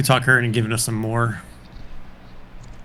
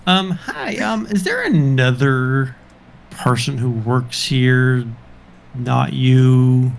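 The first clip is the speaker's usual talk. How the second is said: awkward request; 3 dB louder, much slower than usual. Acted. Player hesitantly asks shopkeeper for another.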